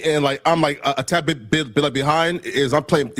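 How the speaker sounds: nervous stumbling stutter. Real, not acted. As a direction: trip over the words nervously. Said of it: "he's stuttering because he's real nervous".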